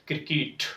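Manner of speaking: soft falling "क्रिकेट" as "krikit"; model answer. Shown as a demonstration. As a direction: answer "क्रिकेट" softly, ending in "kit". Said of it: "क्या पढ़ेंगे".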